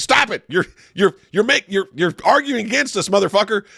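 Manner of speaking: imitating the host.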